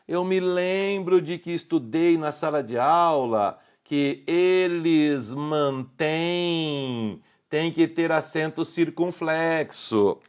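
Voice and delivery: lightly voiced pupil, drawn-out and slow; mock student objection, words stretched out; doubting student. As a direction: imitate a student slowly recalling a classroom rule. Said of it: "você deve estar pensando assim".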